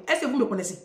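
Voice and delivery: ordinary delivery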